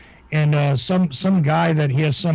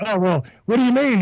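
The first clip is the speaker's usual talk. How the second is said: higher voice, lightly imitating a protest; Vinny Eastwood; 6 semitones higher than usual. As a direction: mimic a put-out host slightly. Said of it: "And the guy was like".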